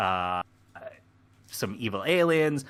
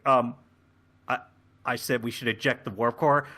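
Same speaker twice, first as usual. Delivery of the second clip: hesitant, halting suggestion; timid and confused. Acted. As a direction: offer it timidly, with false starts. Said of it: "very timid and confused".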